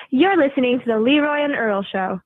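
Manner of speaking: promo line in an American accent. Shown as a demonstration. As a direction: read the show ident with an American accent. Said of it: "that was your American accent".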